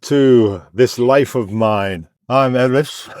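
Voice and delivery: talking with a numbed mouth. Real, not acted. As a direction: speak like the dentist's anaesthetic hasn't worn off. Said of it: "If you're wondering why I'm talking funny".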